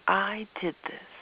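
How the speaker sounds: knowing. Acted. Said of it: "in a knowing way".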